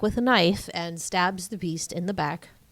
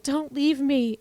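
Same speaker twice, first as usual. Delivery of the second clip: mock crying; 7 semitones higher, slower than usual. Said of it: "she cries and is like".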